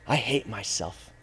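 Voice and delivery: very low and soft, defeated; dejected self-loathing. Acted. Sinner speaking to himself, dejected self-loathing. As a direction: sink down into a quiet, low confession. Voices self-hatred after sin.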